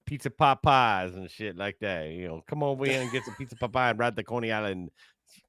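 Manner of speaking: lightly put-on Jersey accent; mock New Jersey accent. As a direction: ramble like a Jersey local, half-hearted accent. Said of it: "It's supposed to be New Jersey".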